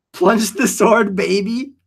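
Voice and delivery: lightly voiced slow innuendo; slow teasing line with a wink; mock seductive. Streamer acting out a chat innuendo, slow mock seduction. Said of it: "Yeah, phrasing".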